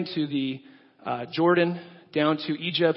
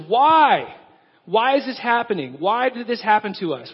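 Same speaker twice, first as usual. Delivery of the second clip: higher, louder, complaining cry of why; Gideon's wrong questions; 5 semitones higher, 4 dB louder than usual. Acted. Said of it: "Gideon starts asking the wrong questions".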